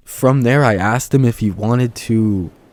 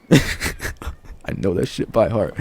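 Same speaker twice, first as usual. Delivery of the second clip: slow, laughing, drawn-out and softer; funny way of saying it; 5 dB quieter, much slower than usual. Shown as a demonstration. Vlogger repeating his own line to camera, slow laughing drawl. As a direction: stretch it out through a laugh, half amused. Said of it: "Just the way I said that".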